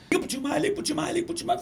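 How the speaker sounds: high-pitched imitated tearful pleading; crying secretary. Crying secretary urging her boss to call a singer, mock tearful. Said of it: "Ela chorando".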